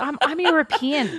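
hammed-up cultural snob; mock snob. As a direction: play the haughty European snob. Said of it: "I'm going like".

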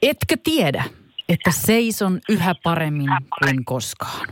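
reads the lyric like a heartfelt poem; solemn poetic lyric reading; dramatic recital. Shown as a demonstration. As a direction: recite it with deep feeling. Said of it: "alan tulkitsemaan tätä kappaletta nyt omalla tyylilläni".

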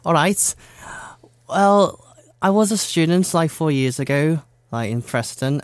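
put-on Scouse accent. Shown as a demonstration. Interviewee telling of student days, back in Scouse accent. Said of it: "Back in Scouse, please".

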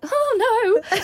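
high, mock-frightened yelp; hammed-up little cry of dismay; scared cat. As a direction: act a timid man taking fright. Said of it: "like a scared cat".

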